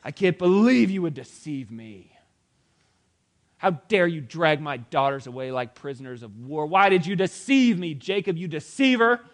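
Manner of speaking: loud, high wounded fury; outraged. Acted. Laban scolding Jacob for stealing his daughters, loud and outraged. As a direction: rant at the deceiver.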